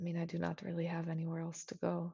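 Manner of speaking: very hushed, quiet, under-the-breath mutter. Voicing a character overheard by a player: muttered under her breath. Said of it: "You hear under her breath".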